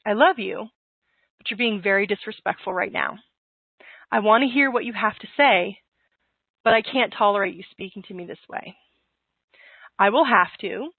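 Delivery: a gentle but firm parent; calm voice. Shown as a demonstration. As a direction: calmly hold the boundary, no edge. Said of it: "in a calm voice, say".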